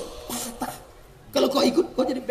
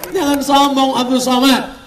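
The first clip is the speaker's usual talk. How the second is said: mock stern kiai; 6 semitones higher, 6 dB louder than usual. Kiai's lesson repeated as loud impression.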